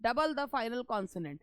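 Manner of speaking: very slow word-by-word quote of the rule; quoting the rule slowly. Shown as a demonstration. Teacher quoting the textbook rule to students, slow dictation. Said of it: "ये बोला".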